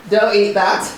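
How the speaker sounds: loud warning with a laugh in it; laughing loud reprimand; harsh tone. Real, not acted. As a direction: tell her off while laughing. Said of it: "a harsh tone in the voice".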